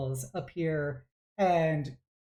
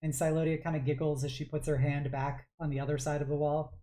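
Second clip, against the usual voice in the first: ordinary talk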